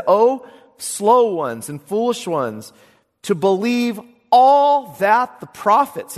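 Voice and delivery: slow, loud rebuke. Acted. Quoting Jesus rebuking the disciples.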